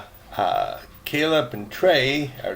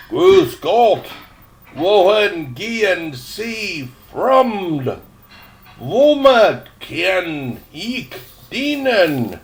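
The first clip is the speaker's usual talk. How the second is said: put-on higher, slow, soft-spoken ghost girl in German; a ghost girl welcomes a lost boy, soft and feminine; 6 semitones higher, 5 dB louder, much slower than usual. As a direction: gently greet the stranger as a feminine spirit, slowly. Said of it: "in a soft, warm, feminine voice".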